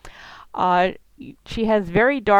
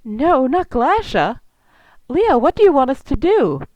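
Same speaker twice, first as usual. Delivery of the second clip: higher, louder cry of dismay; distressed, near tears; 6 semitones higher, 5 dB louder than usual. Acted. Zula hearing of the kidnapping, upset and near tears. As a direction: plead in alarm, close to crying. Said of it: "looks about to cry herself when she hears it".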